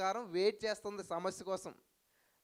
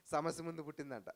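laughing mockery.

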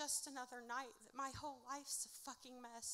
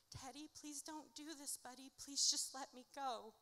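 pleading; 3 semitones higher than usual. Retold or imitated. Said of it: "I'm begging and I'm pleading".

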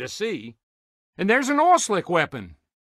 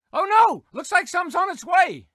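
alarmed exclamation; 9 semitones higher than usual. Acted. Announcer reacts to incoming attack.

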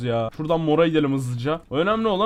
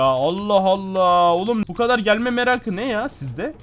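exasperated complaint; 4 semitones higher, 3 dB louder than usual. Real, not acted. Exasperated at approaching enemy.

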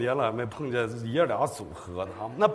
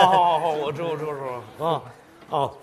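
ordinary talk, nothing marked

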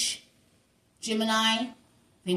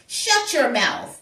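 slow and louder, telling them off; louder mock shush; 4 dB louder, much slower than usual. The reader silencing the ex, in a louder mock shush. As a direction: shut them up harder.

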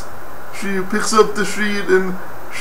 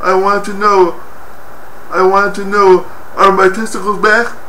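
mildly emphatic, insistent question. Acted. Old patient insisting to a nurse, mildly emphatic. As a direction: press the point with a touch more force. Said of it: "very emphatically".

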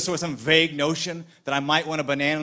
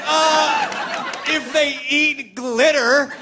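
slow, deliberate retort; 7 semitones higher, much slower than usual. Retold or imitated. His own retort.

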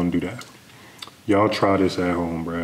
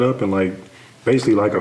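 speaking behind raised hand; faster than usual. Real, not acted. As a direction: hand held before face. Seen 0: Spread fingers held in front of face, not pressed on mouth.

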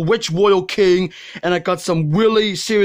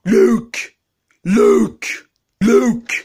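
calling out; 4 semitones higher, 4 dB louder, much slower than usual. Acted. Calling Luke.

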